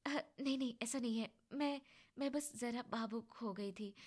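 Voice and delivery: soft, hushed voice just after crying; quiet, choked-up reply; teary, emotional. Acted. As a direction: hold back the tears as she speaks. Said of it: "पायल अपने आंसू पोंछ कर".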